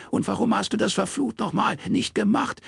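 high and forceful, talking over her father; drowning him out. Acted. Daughter shouting over her father, mock forceful. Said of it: "übertönte ihn Anna".

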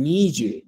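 niyu quoted as the student's mistake, run together in one word; wrong form. Shown as a demonstration. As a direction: repeat the student's niyu to flag it. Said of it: "Lo que está mal". (niyu citado como el error de la alumna)

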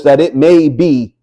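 MAY drawn out slowly; slow, weighted "may be"; stress on MAY. Shown as a demonstration. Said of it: "not might be".

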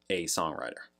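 "a" said as a full, stressed AY. Real, not acted. Praising the singer's craft, stress on "a". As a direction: lean on the article "a", pronounced AY. Emphasizing he is a true songwriter.

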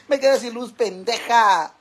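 loud complaint, final word stretched slowly; loud exclamation. Real, not acted. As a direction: cry out with a long drawn last word. Exclaims after losing the light.

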